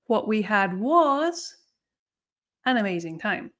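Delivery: teacher stressing the focus of the cleft; emphatic cleft delivery. Shown as a demonstration. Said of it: "we have the thing that we want to emphasize".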